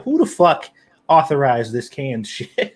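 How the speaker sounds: hammed-up indignant cry; mock outrage. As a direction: pretend to be appalled at canned chowder. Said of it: "you'd be like".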